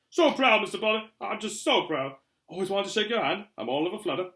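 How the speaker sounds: high, loud, all aflutter; gushing admirer. A narrator's reading. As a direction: gush proudly at meeting your idol. Flustered admirer shakes Harry's hand.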